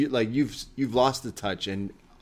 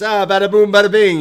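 mock Italian-American mobster accent, much higher and louder; 9 semitones higher, 13 dB louder than usual. Bron brushing off Tony, mock Italian-American mobster accent. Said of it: "Bron Breakker says".

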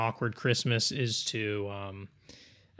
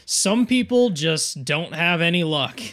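slow, rueful grumble; slowly, with a fatalistic sigh; resigned sigh; 4 semitones higher, 6 dB louder, slower than usual. Acted. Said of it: "he's like".

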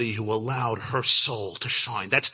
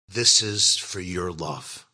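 lower, slow, earnest retelling; 4 semitones lower, much slower than usual. Retold or imitated. Rebbe answers a little girl's love, earnest. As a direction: say it slowly and sincerely, dropping low. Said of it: "looked her straight in the eyes".

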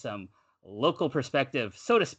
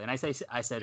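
ordinary talk

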